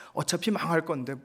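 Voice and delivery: ordinary talk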